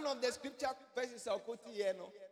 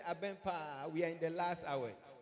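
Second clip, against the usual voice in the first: quiet confiding quote; 8 semitones lower, 6 dB quieter than usual. Retold or imitated. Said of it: "ka kyerɛ wo nua sɛ".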